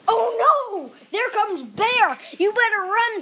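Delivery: put-on a child's story voice crying out a warning to run; warning yell. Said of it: "and then she yells".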